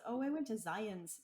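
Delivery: Zion's said with an added final S; imitating people who say Zion's, S on the end. Mimicking those who call the park Zion's, added S. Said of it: "some people also call it Zion's".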